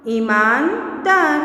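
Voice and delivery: slow ईमानदार with a break before दार; word split in parts. Shown as a demonstration. Teacher breaking up ईमानदार for children, part by part. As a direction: say ईमान, pause, then दार.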